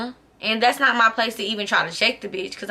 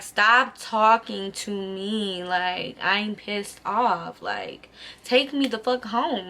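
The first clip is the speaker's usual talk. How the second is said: slow and softer, each word dragged; slow, fed-up, shutting him down; cold annoyance; 3 dB quieter, slower than usual. Retold or imitated. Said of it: "he steady trying to talk to me".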